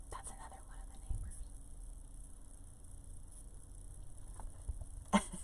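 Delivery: hushed whisper so she won't hear. Real, not acted. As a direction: drop to a secret whisper. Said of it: "I feel like I have to whisper".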